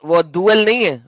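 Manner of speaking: دول said with long oo, falling; not dool. Shown as a demonstration. Correcting his friend, says دول with long oo. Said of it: "دال کے اوپر پیش نہیں ہے".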